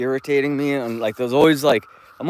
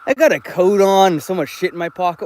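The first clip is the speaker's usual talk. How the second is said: excited self-quote; 8 semitones higher, 4 dB louder than usual. Retold or imitated. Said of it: "So I'm like".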